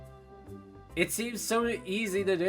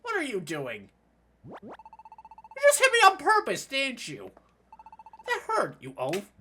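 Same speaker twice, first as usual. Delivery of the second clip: sharp, higher indignant yell; angry outburst; 8 semitones higher, 5 dB louder than usual. Acted. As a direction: snap at the one who bumped you. Hit character complains angrily.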